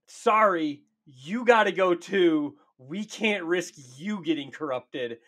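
drawn-out insincere sorry; mock apology. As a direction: break bad news slowly, played for laughs. Voicing knights executing good guys.

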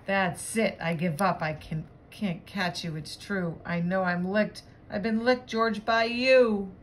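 exasperated surrender, rising and slowing at the end; read-aloud voice of a beaten owner; storybook dog owner giving up. Acted. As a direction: concede defeat to your dog, drawing out the last words. Exhausted owner concedes defeat.

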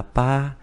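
"pa" pronounced like Chinese bā; "pa" read the Mandarin way; Mandarin eight. Shown as a demonstration. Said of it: "Tám đọc là".

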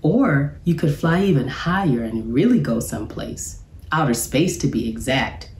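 gentle storybook narration; reading to children. A narrator's reading. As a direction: read it out like a teacher at story time. Reads picture book to class.

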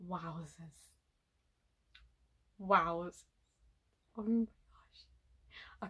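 very slow, soft whispered gasp; drawn-out whisper. Real, not acted. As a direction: let it drag out on a breath. Overwhelmed by the performance.

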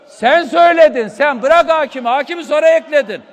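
sharp accusing shout at a rival; angry cry across the chamber; real angry outburst. Real, not acted. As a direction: throw the blame at him. Heated council row, accusing.

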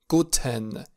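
"Guten" with a clearly voiced e in "ten"; full second syllable. Shown as a demonstration. Teacher isolates the careful form for learners, full second syllable. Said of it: "dacă este pronunțat mai lent".

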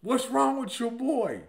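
slow, indignant replay of the question; puzzled friend. Retold or imitated. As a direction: savor the insult, slowly. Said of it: "He said that about me".

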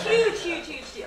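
high, loud emphatic repeat; emphatic exclamation. Real, not acted. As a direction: hammer home how huge it was. Emphatic retelling.

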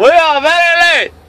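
loud, high-pitched mock Asian accent; hammed-up Asian accent impression, high and loud. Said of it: "the Asian guy's going".

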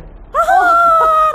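big high shrieking laugh; loud laugh. Real, not acted. Burst of laughter at joke.

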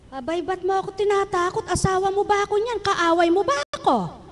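lightly voiced wife pleading with husband; hint of a hurt wife. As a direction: ask him why he frightens you. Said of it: "wife voiced answering husband".

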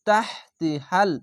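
তাহতি হাল drawn out slowly with a rising end; slow tajweed reading of তাহতি হাল; slow recitation. Shown as a demonstration. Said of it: "হা লাম জবর হাল".

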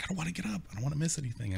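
put-on whiny girlfriend. Girlfriend refusing to get up.

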